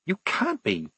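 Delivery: hissed. A narrator's reading. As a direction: hiss it softly beside a sleeper. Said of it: "she hissed".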